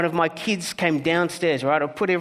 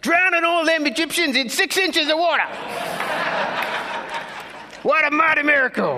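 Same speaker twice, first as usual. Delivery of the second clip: put-on high, loud Black American church-elder accent; joyful Black American accent heckling from the congregation; 12 semitones higher, 4 dB louder than usual. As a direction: shout it out like an old Black American man in the pews. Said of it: "I hope you like my black accent".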